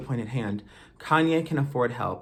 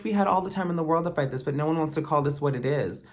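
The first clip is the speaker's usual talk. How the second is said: fast, lightly raised mock of the bystanders; mocking imitation; 3 semitones higher, faster than usual. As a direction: keep the parody going, quicker. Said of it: "you're all gonna be saying".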